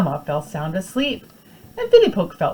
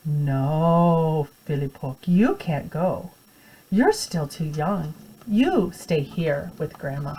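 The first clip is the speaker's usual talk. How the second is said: gentle refusal; much slower than usual. Acted. Mother refusing the child.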